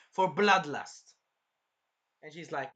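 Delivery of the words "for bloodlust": For bloodlust said slowly and heavily, each word weighted; slow emphatic quote. Retold or imitated. Quoting Carmilla to a friend, slow weighted words. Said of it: "basically she's saying".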